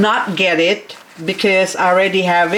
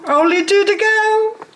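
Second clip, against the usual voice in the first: very high, playful lilt; silly, sky-high chirp; squeaky sing-song; 13 semitones higher than usual. Pretend. Repeats the count even higher.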